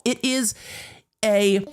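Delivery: very high put-on voice, halting word by word; mocking defendant impression. Defendant bragging about the novel, mocking high voice.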